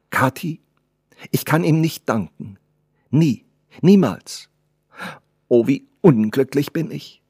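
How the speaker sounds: high, emphatic lament; anguished girl. Acted. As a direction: lament to the old servant. Girl laments to her servant.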